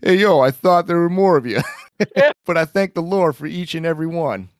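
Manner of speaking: a goofy put-on street voice; mock accent. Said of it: "what accent do I need to do now?".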